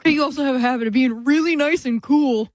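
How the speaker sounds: compliment that comes out a touch sarcastic; sarcastic-sounding praise. Real, not acted. Praising a colleague's habit on air, sarcastic-sounding. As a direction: praise them so the sincerity is in doubt. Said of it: "That sounded very sarcastic".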